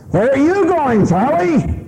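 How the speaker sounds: high, prying wife voice; nagging wife. Retold or imitated. Wife questioning her husband on his way to the bathroom, in a high voice. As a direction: pin him down like a suspicious wife. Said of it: "and his wife says".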